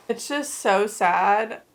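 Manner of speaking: slow, whispered and heavy with a sigh; whispered grief over a character's death. Real, not acted. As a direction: breathe it out in sorrow. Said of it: "I could cry right now".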